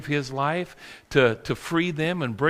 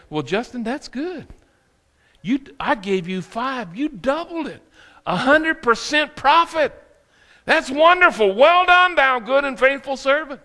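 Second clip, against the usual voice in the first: joyful praise; 9 semitones higher than usual. Acted. Master praising his faithful servant, building to joy. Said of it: "he said".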